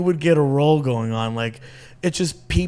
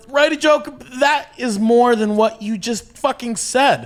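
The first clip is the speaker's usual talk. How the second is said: retold snap; 8 semitones higher than usual. Retold clash with heckler.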